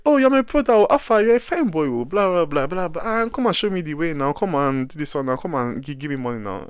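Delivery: high, sing-song coaxing that fades into asking for money; wheedling officer. Retold or imitated. Customs officer flattering the traveller for money, high coaxing. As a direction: sweet-talk him then fish for cash.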